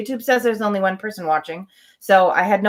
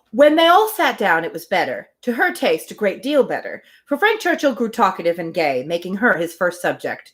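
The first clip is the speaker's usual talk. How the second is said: even, measured reading of a classic novel; story narration. Acted. Host reading Emma aloud to her livestream, calm narration. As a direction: read it like an audiobook, steady and clear.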